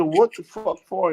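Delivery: loud, slow, high-pitched demand; big mad. Retold or imitated. Arrested man repeats his demand to the officer, big mad. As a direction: drag out the retold angry question. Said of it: "I bet you was big mad".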